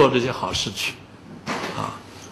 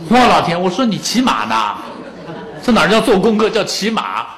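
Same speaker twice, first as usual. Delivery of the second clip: laughing disbelief; 3 semitones higher than usual. Real, not acted. Laughing at son's posture.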